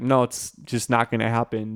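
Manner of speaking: ordinary talk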